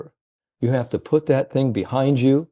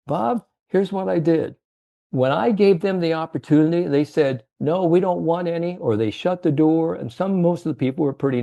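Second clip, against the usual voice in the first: lightly voiced old man, higher; a light take on the old salesman explaining; old salesman's voice; 6 semitones higher than usual. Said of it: "how he talked to".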